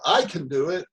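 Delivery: bright confident I can; upbeat can-do tone. Shown as a demonstration. Coach showing the owner's tone: confident. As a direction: say it like you believe you can. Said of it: "hear the tone of voice that goes with that".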